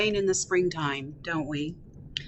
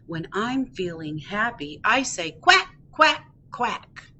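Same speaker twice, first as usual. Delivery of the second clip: lilting read-aloud with punchy quacks; cheerful duckling, picture-book reading. Acted. Ducky Duckling introducing itself to young listeners, cheerful read-aloud. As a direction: read to toddlers with swooping emphasis.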